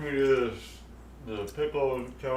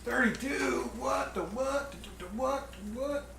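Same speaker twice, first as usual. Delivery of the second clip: surprised; 12 semitones higher than usual. Real, not acted. Surprised at the count.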